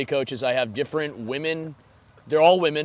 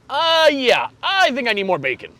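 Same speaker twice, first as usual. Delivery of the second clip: much higher and louder dopey comedian voice; millennial comedian impression; 10 semitones higher, 5 dB louder than usual. Mocking an old comedian's bit for a friend, higher dopey voice. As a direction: play a clueless millennial comic whining for bacon. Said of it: "The guy that was like".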